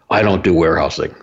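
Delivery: firm, measured and not angry; brother-in-law correcting the speaker at a family meal, deliberately. Retold or imitated. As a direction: lay it down deliberately as settled fact. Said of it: "he said it very deliberately".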